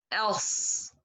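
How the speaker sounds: "As" ending in a heavy ص. Shown as a demonstration. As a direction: raise the back of the tongue and hold "As". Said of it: "put my tongue up from the back".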